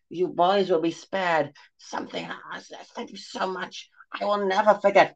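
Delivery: moved to tears; happy sob. Acted. Crone sobbing happily at the kindness.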